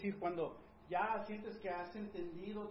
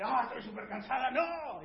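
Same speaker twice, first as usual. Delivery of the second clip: high, loud, quick imitation of the wife; husband mimicking his wife's excuse; mock tired wife; 7 semitones higher, 8 dB louder than usual. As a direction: parody her "I'm super tired" brush-off.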